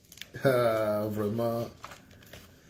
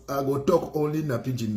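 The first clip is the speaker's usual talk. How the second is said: pidgin English put-on. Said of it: "Mon anglais est quand même meilleur que ça".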